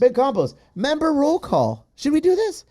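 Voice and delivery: high, hyped-up announcer call; rally the room for roll call; excited announcing. Real, not acted.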